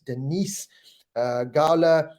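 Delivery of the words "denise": "Denise" stressed on the second syllable; corrected name. Real, not acted. Host confirming a viewer's name, "Denise" said duh-NEESE. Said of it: "not Dennis".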